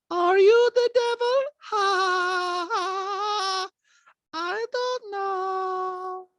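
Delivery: high, drawn-out horror-trailer voice; Diana. Retold or imitated. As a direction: intone it slowly like an eerie movie villain. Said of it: "Diana, the way she talks, it's like the last scene".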